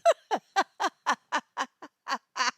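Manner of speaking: long burst of laughter; loud laugh. Real, not acted. Laughing at Eden's joke, loud.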